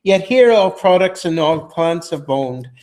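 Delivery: Early Modern English original pronunciation; reading verse in original pronunciation. Shown as a demonstration. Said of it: "I'm gonna try to read it in original pronunciation".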